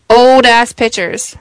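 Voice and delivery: muffled, hollow, like inside a can; talking into a glass. Real, not acted. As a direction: voice echoing in a bottle. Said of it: "it sounded like you were in, like, a can".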